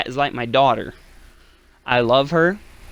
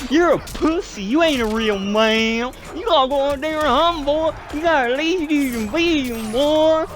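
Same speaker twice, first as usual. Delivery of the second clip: mocking Southern hick; 10 semitones higher than usual. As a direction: sneer like a hick bullying a guy. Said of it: "these Southern hicks just start laying into him like".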